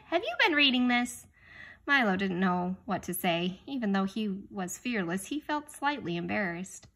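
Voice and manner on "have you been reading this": higher, surprised question; surprised father. A narrator's reading. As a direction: catch him out in surprise. Father finds book.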